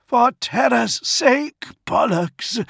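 high, strained yell across a distance; loud, drawn-out urgent yell. A narrator's reading. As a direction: yell it urgently, pitched right up. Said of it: "Dantiok yelled".

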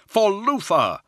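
high-pitched battle shout; answering war cry. A narrator's reading. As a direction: troops roaring back their leader's name. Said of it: "the Astartes answered".

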